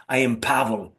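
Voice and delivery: deliberately bad Russian accent; mock Russian accent, lightly done. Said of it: "I do a very bad Russian accent".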